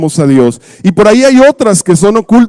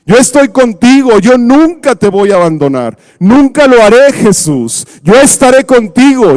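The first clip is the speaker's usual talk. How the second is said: high, fervent vow; Peter's promise; 4 semitones higher than usual. Retold or imitated. Peter vowing to Jesus never to leave, high and fervent. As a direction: swear loyalty, voice raised high. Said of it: "empieza la promesa de Pedro".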